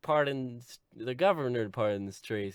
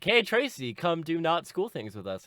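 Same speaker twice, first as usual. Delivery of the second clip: higher, lightly acted friendly hail; friends; 5 semitones higher than usual. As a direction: call a pal over. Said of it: "they're like".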